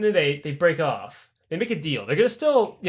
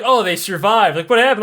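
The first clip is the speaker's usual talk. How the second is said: curious villagers; 3 semitones higher, 5 dB louder than usual. Retold or imitated. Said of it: "they're like".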